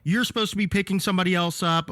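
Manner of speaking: pitched well up, a scolding parody of the wife; mock angry yelling. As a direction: rattle off her complaints in mock outrage. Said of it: "she immediately starts yelling at me".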